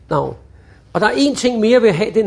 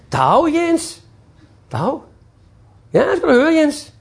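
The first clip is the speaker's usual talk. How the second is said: pushy telemarketer; 6 semitones higher, slower than usual. Retold or imitated. Telemarketer overusing the name.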